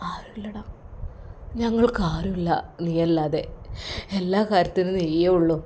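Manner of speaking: soft, sorrowful confession from the father; understated grieving father; lonely old father. Acted. Father confides in son.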